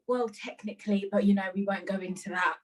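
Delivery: brushing it off casually; styling it out. Retold or imitated. Covering an embarrassing slip with a friend, styling it out. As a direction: play it cool after a slip. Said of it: "I had to style it out".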